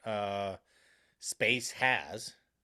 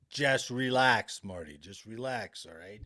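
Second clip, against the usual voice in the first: mock placating; 2 semitones lower, slower than usual. Meeting colleagues calming the dissenting engineer, mock placating. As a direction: talk an upset colleague down, mockingly.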